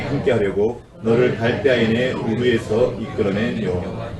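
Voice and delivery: slow solemn Bible reading; scripture reading. Acted. Preacher reading Genesis to the congregation, slow and solemn. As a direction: read the verses slowly, with weight.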